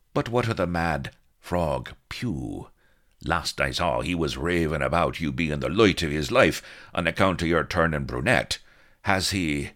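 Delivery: a hint of a fussy young woman; lightly voiced lady. Vanity questioning Blood about Captain Pugh, lightly voiced. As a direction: ask about the mad captain.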